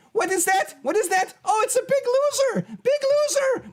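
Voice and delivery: high mocking wrestling heel taunt; wrestling promo. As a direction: sneer at the rival like a wrestling heel. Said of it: "I feel like cutting a promo".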